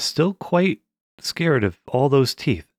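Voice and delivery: usual speaking voice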